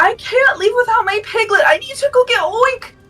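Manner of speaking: put-on tearful, teary, pleading girl voice. Voicing a girl who starts tearing up over her piglet: tearful pleading girl. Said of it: "she begins to start tearing up".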